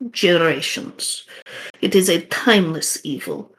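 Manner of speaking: put-on Russian accent. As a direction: tell the legend gravely, Russian accent. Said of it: "the shaman's gonna sound a lot like the guy you just talked to".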